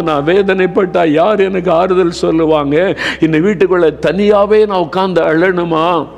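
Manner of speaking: a touch of a weeping widow's lament; grieving widow. Acted. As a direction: plead like a bereaved mother, lightly voiced. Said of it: "அழுது கொண்டே வருகிறாள்".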